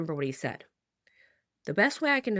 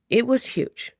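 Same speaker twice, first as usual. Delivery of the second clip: higher and louder, amazed; awed; 8 semitones higher, 5 dB louder, slower than usual. Retold or imitated. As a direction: blurt out the size in awe. Awed by the owl's size.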